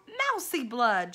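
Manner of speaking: bay for blood; hungry rat yelling at the mouse; rat shouting. A narrator's reading. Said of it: "shouted one rat".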